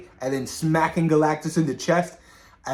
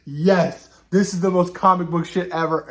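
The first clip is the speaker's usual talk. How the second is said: gleeful cheer; 4 semitones higher, 4 dB louder than usual. Retold or imitated. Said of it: "I was like".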